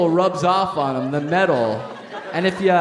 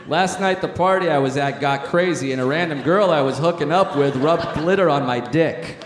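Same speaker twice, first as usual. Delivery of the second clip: lightly voiced college coach; a hint of an old basketball coach reading a letter; Coach K impression. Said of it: "You're switching to a Coach K impression".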